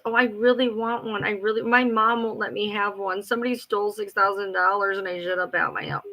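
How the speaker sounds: guilt trip imitation. Telling a friend how she guilt-tripped, lightly mocking whine. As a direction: lightly mimic her pleading. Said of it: "just the guilt trips".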